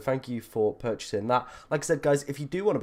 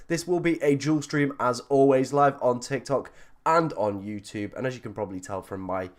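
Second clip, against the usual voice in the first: hoarse, croaky sick voice; talking through a sore throat. Real, not acted. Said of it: "kind of croaky voice".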